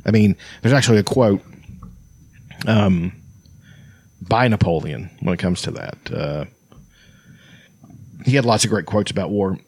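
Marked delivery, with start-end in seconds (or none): 4.3-9.6 slightly breathless, trailing quiet; short of breath. Real, not acted. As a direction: speak as if you can't quite get air. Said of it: "it sounds like I'm short of breath today".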